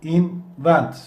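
"Invent" with the weight on "-vent"; in-VENT, hit the second syllable; stress on the last syllable. Shown as a demonstration. Teacher showing students, stress on the last syllable. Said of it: "Vurgu son hecede".

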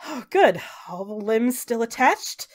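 relieved goddess checking on her returning hero; Raven Queen. Acted. Raven Queen greets her returning hero, lightly voiced and relieved. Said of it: "and she says".

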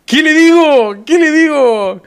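high-pitched, frantic protest; flustered panic. Real, not acted. Streamer protests to chat about talking to Farfa, flustered and high. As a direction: voice jumps way up in social panic.

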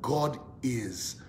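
soft, low spoken declaration; softly leading people in a declaration; confession. Shown as a demonstration. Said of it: "Say it with me".

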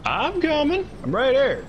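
high, urgent reassurance; urgent call. Real, not acted. Rushing to help teammate.

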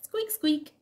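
high little toy squeaks; squeaky rubber duck. Acted. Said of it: "says the little rubber duck".

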